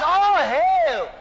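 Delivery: loud, high, drawn-out greeting; shouted hail. Acted. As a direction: shout it out like a triumphant master. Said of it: "That's what he said".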